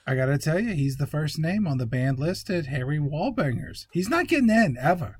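tough bouncer-like bro voice; hammed-up bro laying down the law; bro impression. Riffing as the movie hero, mock-tough bro.

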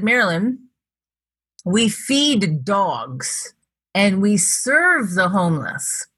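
put-on slow, deliberate French accent correction. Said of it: "with his French accent".

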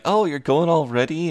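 high, surprised question; a friend caught off guard as the others head out; mock surprise. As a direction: play it up as a startled let-down. Simon disappointed friends leaving.

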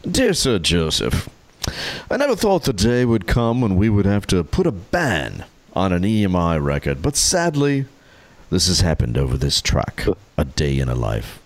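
mild British accent reading a formal letter; British accent, read stiffly like an old letter. Shown as a demonstration. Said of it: "Here comes the British accent".

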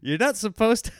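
high, mock-outraged rant; imagined angry father-in-law. Imagined father-in-law scolding about his car, mock outrage. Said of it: "he's gonna be like".

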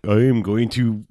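slow, over-enunciated Southern drawl; every word carefully pronounced, Southern; over enunciating Southern. Retold or imitated. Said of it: "overly enunciated Southern slash Louisiana thing".

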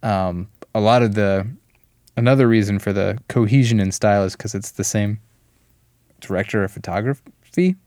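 talking while choking on a drink. Real, not acted. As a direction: voice catching from choking. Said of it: "I'm, like, choking".

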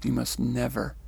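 slow, deliberate, calm repetition. Retold or imitated. Messenger's lesson to her repeated, very calmly. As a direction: let each phrase settle calmly. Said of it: "He says very calmly".

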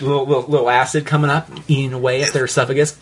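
quick, hammed-up Australian with reflux; heartburn Australian accent. Shown as a demonstration. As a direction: rush it out in a queasy Australian accent. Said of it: "or heartburn Australian".

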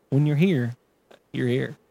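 gurgly, soggy slogan voice; wet voice. Acted. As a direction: say it like your mouth is full of water. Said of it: "in a wet voice".

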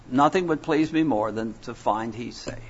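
hushed, sincere whisper, breath only. Real, not acted. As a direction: drop to a whisper for a personal confession. Private hope about Joey's salvation.

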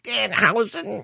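slow, drawn-out wrestler growl; a lightly done Macho Man promo; Macho Man Randy Savage. Retold or imitated. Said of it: "I'll do my, like, Macho Man, Randy Savage".

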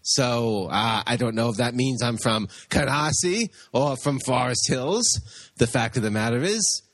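lightly voiced boozy jock rambling; a hint of a swaggering drinker explaining himself. The host answering a listener's question about his accent, lightly voiced. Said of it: "Flash, get over here".

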